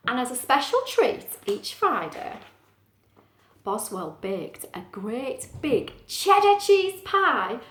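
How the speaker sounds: slow, savoured storybook ending; measured storytime narrator; story narration. Acted. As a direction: linger on the happy ending. Reads story aloud.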